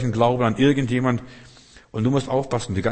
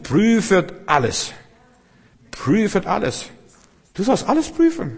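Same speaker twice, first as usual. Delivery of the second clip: high, slow, ringing command of prüfet alles; emphatic preaching; 9 semitones higher, 3 dB louder than usual. Real, not acted. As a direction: call it out to the whole congregation, each word weighted. Preacher hammering home a command.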